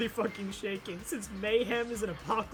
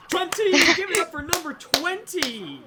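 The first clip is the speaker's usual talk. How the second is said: booming pumped announcer; 8 semitones higher, 4 dB louder than usual. Pretend. Hypes number like an announcer.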